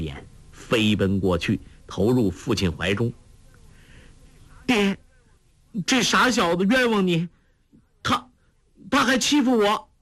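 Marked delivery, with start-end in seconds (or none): 4.7-9.9 put-on much higher, pouting young girl's voice; girl complaining. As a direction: whine to daddy. Daughter complains to father.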